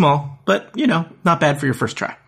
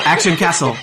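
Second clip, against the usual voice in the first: announcer shout; 3 semitones higher than usual. Pretend. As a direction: belt it like a game intro. Title shout like game intro.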